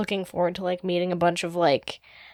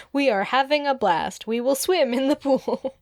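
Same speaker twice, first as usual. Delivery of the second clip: higher, stilted holiday cheer; mesmerized passengers; 6 semitones higher than usual. Acted. Humans on the cruise speaking in unison, high and blankly cheerful. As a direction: recite fun like a programmed tourist. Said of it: "their expressions blank".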